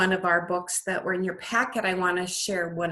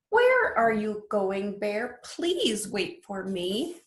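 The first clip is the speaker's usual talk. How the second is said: lilting storybook read-aloud; sing-song picture book voice; reading to children; slower than usual. Acted. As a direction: read it like bedtime story time for little ones. Teacher reads picture book aloud.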